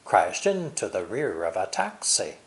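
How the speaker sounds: "Crashed into" joined, "rear of a" linked; connected words. Shown as a demonstration. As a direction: link "Crashed into", stress "rear" and "taxi". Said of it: "are easily connected like this".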